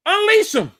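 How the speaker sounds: high, excited cry; fired-up demand. Real, not acted. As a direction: call it out to the coaching staff. Demanding the coaches use him.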